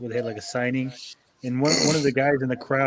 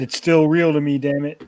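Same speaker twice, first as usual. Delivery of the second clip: said louder for Josh; louder repeat; 2 semitones higher, 5 dB louder than usual. Retold or imitated. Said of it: "I said".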